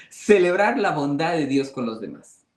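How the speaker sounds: chuckling through the phrase; laughing. Shown as a demonstration. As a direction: repeat it with a rueful laugh. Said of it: "esto es bien difícil".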